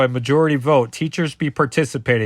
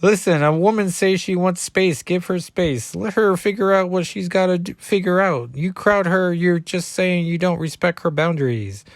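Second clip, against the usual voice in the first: put-on higher-pitched Cajun accent; Gambit; 5 semitones higher than usual. Gambit answering Reptile's jibe, higher Cajun accent. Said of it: "I was taking over Gambit".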